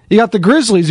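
ordinary delivery

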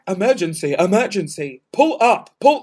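lightly imitated cockpit alarm voice; a hint of robotic emergency announcement; cockpit warning. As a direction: mimic an automated aircraft warning. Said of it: "like, um, air crash investigation".

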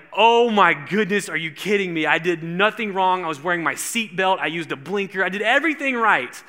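put-on retelling a teen's complaint to the judge; indignant outburst. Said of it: "And so I was so mad".

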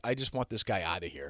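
a mild muttered complaint about the guest; muttered inner thought. Retold or imitated. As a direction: mutter it like a private wish. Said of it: "I was basically like".

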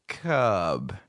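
put-on little boy repeating. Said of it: "And he'd go".

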